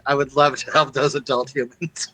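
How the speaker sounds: lightly voiced cleric, earnest and kind; a hint of a devout priest offering help; in character as the cleric. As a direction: say it as the pious cleric, sincerely. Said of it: "As the cleric".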